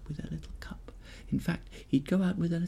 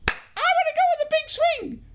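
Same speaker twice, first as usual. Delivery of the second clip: put-on high, loud eager girl's cry; excited little girl; 8 dB louder than usual. Brave girl demanding the big swing, high excited shout. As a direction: burst out like a thrilled little girl. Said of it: "then she'd say".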